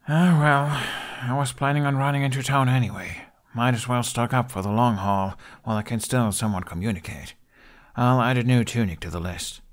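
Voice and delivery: a lad shrugging it off and making plans; Hiccup voice. Acted. Hiccup planning trip to town.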